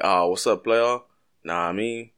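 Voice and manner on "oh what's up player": casual vernacular. Retold or imitated. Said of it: "it's like".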